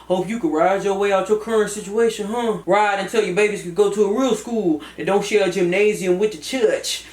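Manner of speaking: Cousin Fat. Acted. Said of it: "Cousin Fat".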